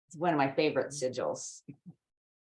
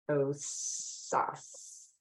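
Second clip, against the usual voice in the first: whispered; 7 dB quieter than usual. Shown as a demonstration. Saying the word of power.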